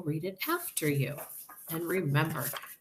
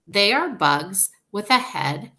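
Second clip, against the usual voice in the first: excited; 3 semitones higher, 8 dB louder than usual. A narrator's reading. Character dialogue read aloud.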